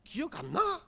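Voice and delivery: a light little daughter's nagging; daughter's plea. Retold or imitated. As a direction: whine it like a little girl reminding her dad. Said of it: "우리 딸내미 하는 말입니다".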